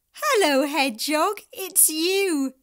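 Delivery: excited greeting. Acted. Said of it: "said Fizz".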